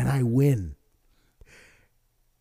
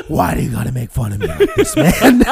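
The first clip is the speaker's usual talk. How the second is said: defeated dad. Retold or imitated. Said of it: "he's defeated".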